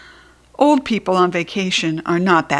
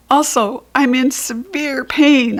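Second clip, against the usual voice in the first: mild mock shout; 5 semitones higher, 3 dB louder, slower than usual. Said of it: "I shouted".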